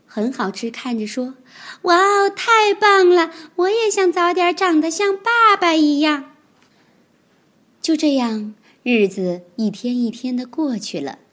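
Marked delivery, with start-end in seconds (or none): 1.8-6.3 高声童声，"太棒了"拖长，"爸"字落下; 崇拜地惊叹; 兴奋惊叹. Acted. 小恐龙看得佩服. (小恐龙高声兴奋地赞叹)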